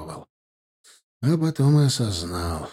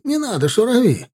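high, tearful cry in broken Russian; sobbing plea; 11 semitones higher, 4 dB louder than usual. A narrator's reading. Captive sobbing as he begs for mercy. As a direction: sob out the plea. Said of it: "душман всхлипнул".

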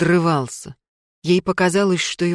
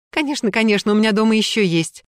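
delighted; 4 semitones higher, faster than usual. Acted. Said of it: "обрадовалась".

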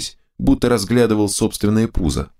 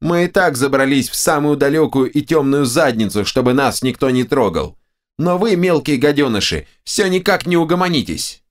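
two bickering giant voices; 7 semitones higher than usual. A narrator's reading. Right head rants.

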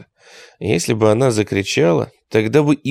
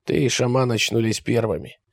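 scraping, clicking creature voice; rasping clicking voice; 5 dB quieter than usual. A narrator's reading. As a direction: grate and click the words. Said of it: "скрежещущим, щёлкающим голосом".

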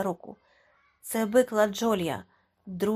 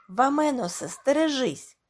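loud, high alarmed cry; warning scream; 5 semitones higher, 5 dB louder than usual. A narrator's reading. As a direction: shout the danger before the car hits. Warning shout at a car.

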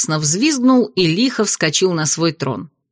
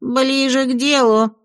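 higher, slow jealous imp voice; jealous bark; 5 semitones higher, slower than usual. Acted. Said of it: "ревниво рявкнул бес".

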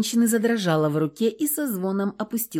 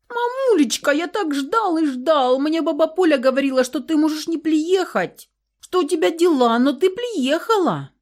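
put-on high child voice tumbling out in a rush; a small boy overjoyed his mother came; high eager child chatter; excited little boy rattling on; 9 semitones higher, 4 dB louder than usual. A narrator's reading. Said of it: "Зачастил мальчишка".

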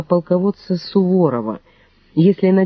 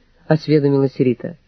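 ordinary delivery, nothing marked

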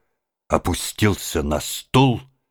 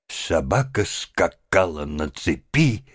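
usual speaking voice

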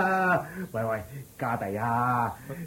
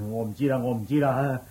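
low, hurried muttered disclaimer; quick, low brush-off; washing hands of it; 5 semitones lower, faster than usual. Acted. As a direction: rattle it off, wanting no part of it. Washes hands of the matter.

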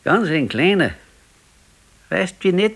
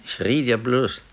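a sheepish whispered excuse; defensive whisper; 4 semitones lower than usual. Acted. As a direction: whisper it, backing down. Defensive reply in marital bickering.

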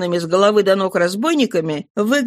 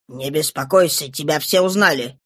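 a lower, rough gang-boss voice; gruff Thénardier, lower; 5 semitones lower than usual. Acted. Thénardier cuts Éponine off, lower and dismissive. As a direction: brush her off in a lower voice.

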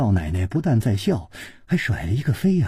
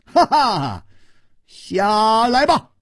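higher, louder, chuckling scold; amused command, slow on the last words; laughing rebuke; 9 semitones higher, 4 dB louder, slower than usual. A narrator's reading. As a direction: laugh as you order him down. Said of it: "他笑斥道".

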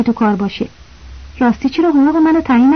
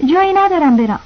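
higher, timid, unsure reply; hesitant and scared; 5 semitones higher than usual. Acted. The boy answering his angry boss, timid and higher. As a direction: answer as if afraid to be yelled at. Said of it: "با تردید و ترس به او جواب دادم".

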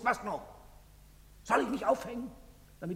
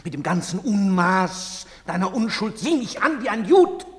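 louder, higher accusation; bitter outburst; 5 semitones higher, 8 dB louder than usual. Acted. Father rails at his son's innocence. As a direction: hurl the accusation.

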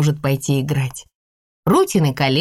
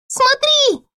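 put-on high delighted toddler; excited toddler shout. A narrator's reading. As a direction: call out in wonder. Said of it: "крикнула она". (восторженный детский крик)

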